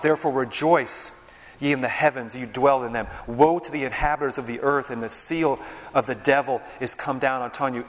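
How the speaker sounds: emphatic preacher reading the verses aloud; scripture reading. Acted. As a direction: read the King James verses with weight.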